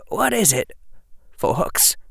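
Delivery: puzzled. Acted. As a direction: ask it innocently puzzled. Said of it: "said the false Harry in puzzlement".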